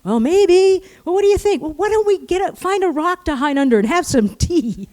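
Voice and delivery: high, loud shouted exchange over wind; screaming at each other. Retold or imitated. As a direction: imitate two hikers yelling to be heard. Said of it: "we're screaming at each other".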